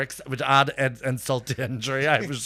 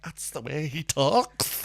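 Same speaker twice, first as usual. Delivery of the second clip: mock insistence; 4 semitones higher, slower than usual. Colleague's retort backstage, acted.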